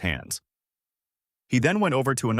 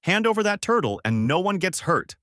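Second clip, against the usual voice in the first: raised-pitch, mildly gruff demand; gruff threat; 9 semitones higher than usual. A narrator's reading. Bear bandit threatening the travellers, mildly gruff. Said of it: "He gruffly says".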